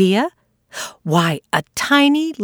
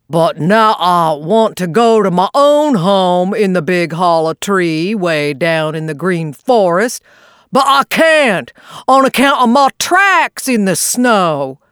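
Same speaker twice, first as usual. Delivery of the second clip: mournful. Acted. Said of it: "concluded Unc' Billy mournfully".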